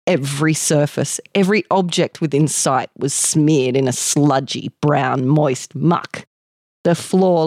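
measured narration, lingering on details; story narration. A narrator's reading. Reading Amanda's exit into the mall, measured narration. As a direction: draw out the vivid description. Reads the short story aloud.

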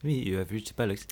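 put-on French accent. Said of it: "in a French accent".

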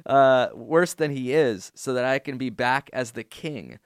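dramatic reading of a fan email; reading an email aloud. Acted. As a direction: read the listener's letter with mock drama. Reads listener email aloud.

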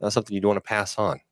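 a hint of a fight announcer. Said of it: "it was my announcer voice".

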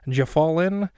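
light wisecracking comedian impression; a hint of old comedy wisecrack, rising at the end; Groucho Marx. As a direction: toss it off like a cigar-waving comic. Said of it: "Kind of like a Groucho Marx little".

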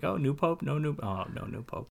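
hopeful lift, then deflated near-whisper; mock pope watcher. Joking about smokestacks, hopeful then deflated. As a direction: perk up at the pope news, then let it sag to a breath.

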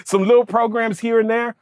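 embarrassed excuses through laughter; laughing sheepish excuse. Retold or imitated. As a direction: laugh at your own lame excuse.

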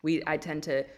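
put-on drawn-out, slow Valley Girl accent. Shown as a demonstration. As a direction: play up the Valley Girl drawl slowly. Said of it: "I'm playing it up a little bit right now".

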